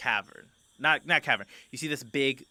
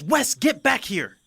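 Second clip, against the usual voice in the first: high, slow shout calling him back; 13 semitones higher, 7 dB louder, slower than usual. Acted. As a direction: yell up the stairs after him. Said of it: "she goes".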